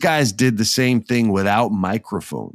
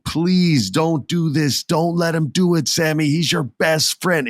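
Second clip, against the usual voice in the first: higher, slow, begging plea; mock crowd pleading; 6 semitones higher than usual. Crowd pleading with Sammy not to swing, slow mock plea. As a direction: beg him like a desperate crowd. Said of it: "they're screaming".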